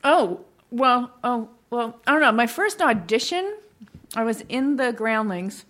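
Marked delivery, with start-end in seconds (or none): 4.1-5.6 talking while chewing gum; words around a wad of gum. Real, not acted. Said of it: "I'm sorry, I'm chewing gum".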